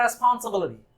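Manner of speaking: put-on रिस्पॉन्सिबिलिटी slurred with an American accent; American movie-style accent on रिस्पॉन्सिबिलिटी; Hollywood American accent. Teacher imitating a Hollywood movie, American accent. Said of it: "Hollywood movie देखी".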